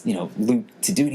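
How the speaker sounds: normal talking voice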